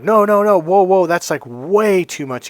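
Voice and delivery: retold "oh no, I couldn't" protest; mock protest. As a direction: wave off the money in an acted protest. Acted refusal of generous payment.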